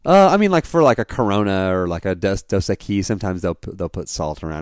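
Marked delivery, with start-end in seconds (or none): 2.4-3.1 Dos Equis with the emphasis on the wrong syllable; misplaced emphasis. Real, not acted. Naming beers to co-host, "Dos Equis" with misplaced emphasis. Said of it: "emphasis on the wrong syllable".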